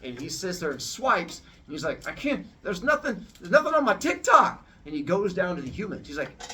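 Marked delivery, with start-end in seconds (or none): 2.1-4.6 high, rising whine, louder at the end; whiny complaint. Acted. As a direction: whine like a kid losing his phone. Zeus loses his TikTok.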